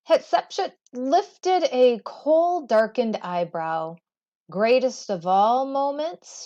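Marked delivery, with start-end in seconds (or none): 4.5-6.4 playful teasing question, rising. Acted. Queen teasing her architect, playful rising question. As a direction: tease him lightly with the question. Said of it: "she teased".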